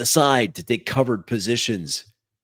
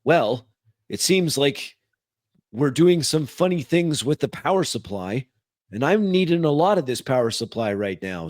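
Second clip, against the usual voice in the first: computerized voice; 4 semitones higher than usual. Acted. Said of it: "a computerized voice comes over the speaker".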